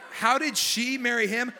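slow, hammed-up how-could-she; mock incredulity. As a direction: play the stunned crowd. Mocking the audience's reaction.

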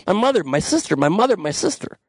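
a hint of the Chinatown scene, rising lines; Chinatown quote. Host quoting the film Chinatown, lightly performed. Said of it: "Oh, Chinatown".

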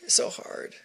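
high, soft, half-laughing breathy whine; milk the pity, tiny and high; mock self-pity through a laugh. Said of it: "we're like".

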